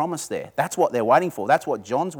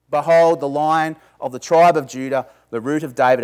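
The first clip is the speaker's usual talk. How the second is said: louder, proclaiming Behold like a herald; ringing proclamation; 7 dB louder than usual. Retold or imitated. Elder announcing the Lion to John, loud and grand.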